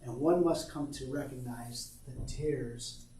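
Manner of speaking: measured, earnest poem reading. Acted. Reads son's poem aloud.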